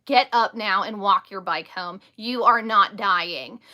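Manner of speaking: stern order. Retold or imitated. Stepmom ordering dramatic child up.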